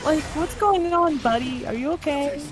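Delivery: heartfelt concern. Acted. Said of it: "he's talking from the heart".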